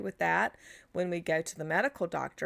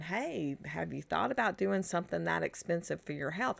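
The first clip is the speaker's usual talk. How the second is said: softly voiced, mildly sheepish suggestion; lightly acted timid pitch, kept quiet; 4 dB quieter than usual. Practitioner suggesting a health expense to a client, mildly sheepish. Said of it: "very sheepish of going".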